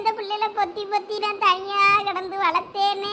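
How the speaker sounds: singsong acted lament; tearful wailing. Mother laments to a neighbour about facing her husband, tearful wailing. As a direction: stretch key words into a helpless wail. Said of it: "இங்க நின்னு அழுதுகிட்டு இருந்தா".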